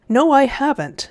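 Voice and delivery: put-on indignant young protest. A narrator's reading. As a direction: protest as a wrongly accused boy. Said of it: "said Diggory indignantly".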